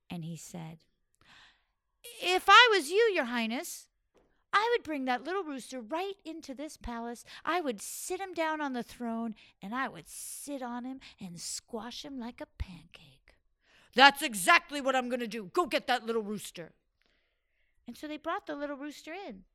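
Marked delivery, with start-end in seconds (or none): 2.0-9.3 higher, scheming servant pitch; sly servant voice. Acted. Third servant scheming to the sultan, higher voice. 9.6-13.4 whisper. Acted. Whispered in character. 13.9-16.7 quick, louder royal command; eager sultan order. Acted. Sultan ordering servants to fetch the rooster, eager.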